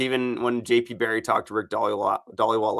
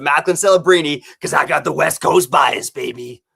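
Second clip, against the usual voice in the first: hyped-up answer; 4 semitones higher, 8 dB louder than usual. Retold or imitated. Retelling his own Olympics answer.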